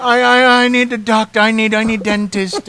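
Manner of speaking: hammed-up Indian accent, loud and high; a comic Indian accent pleading for a dentist. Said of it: "Why am I speaking in an Indian accent?".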